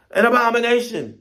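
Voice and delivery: high, loud cry of alarm; birds screeching. Acted. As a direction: screech the warning like a startled flock. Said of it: "they're screeching".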